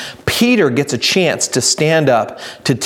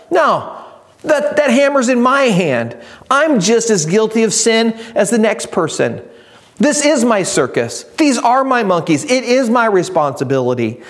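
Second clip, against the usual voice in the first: fervent confession; 5 semitones higher than usual. Acted. Preacher voicing confession.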